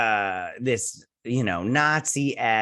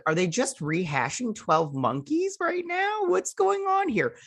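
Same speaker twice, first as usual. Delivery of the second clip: exasperated disbelief; 12 semitones higher, slower than usual. Retold or imitated. Exasperated at rehashed plot.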